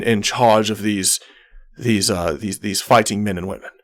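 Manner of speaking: lightly voiced courtly captain; a hint of a gallant, formal ship's captain; Captain Zardoz. Captain bowing to Galma to introduce himself, lightly courtly. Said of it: "he bends over and he goes".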